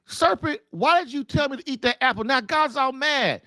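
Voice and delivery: upset Eve. Retold or imitated. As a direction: blame the serpent, a hint of panic. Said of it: "Eve probably was like".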